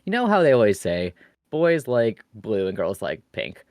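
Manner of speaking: put-on lilting, simple explainer for a young niece; walk a small child through it; kid-friendly explanation. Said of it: "in the most kid-friendly terms I could".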